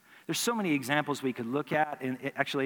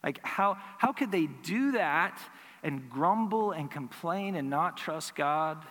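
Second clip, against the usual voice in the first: a hushed then rising disbelief; like you can't believe they'd do it; incredulous. Retold or imitated. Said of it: "I'd think".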